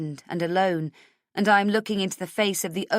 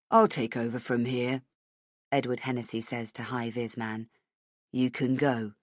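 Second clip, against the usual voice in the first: low, cool authority; a hint of quiet menace; Hennessy dismissing the guard, coldly; lightly voiced menacing official; 5 semitones lower, 3 dB quieter than usual. Hennessy's villain voice.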